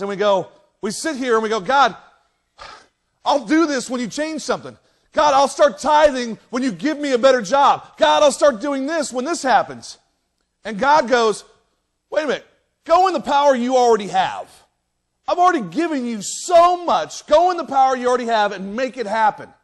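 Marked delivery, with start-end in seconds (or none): 1.6-10.0 raised, insistent bargaining with God. Acted. Us on the sidelines, bargaining with God. 12.1-19.5 higher, forceful exhortation as God; urging. Acted. God answering those who wait, urging emphatically. God's exasperated answer to bargainers.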